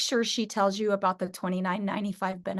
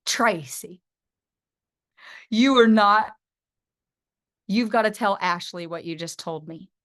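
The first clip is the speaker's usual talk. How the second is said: put-on Wesley-like accent; 3 semitones lower than usual. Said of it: "I got an accent like Wesley".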